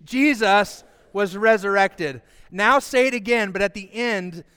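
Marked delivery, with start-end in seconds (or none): 0.0-2.2 slow, measured statement for all to join; deliberate group recitation; leading a recitation. Shown as a demonstration. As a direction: say it slowly so a crowd can follow. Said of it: "Say that with me".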